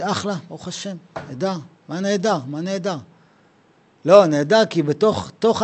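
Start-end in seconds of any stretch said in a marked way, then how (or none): 0.0-3.0 mock cheerful. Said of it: "גם בן אדם כזה יגיד".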